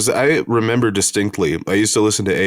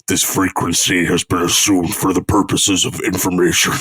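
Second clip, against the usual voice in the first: voice changer. Retold or imitated. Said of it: "it's just like a voice changer".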